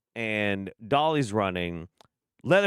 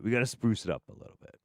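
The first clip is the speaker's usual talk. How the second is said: rushed repeat; much faster than usual. Shown as a demonstration. Telling listeners the show needs a change, rushed throwaway. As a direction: blurt it out at double speed.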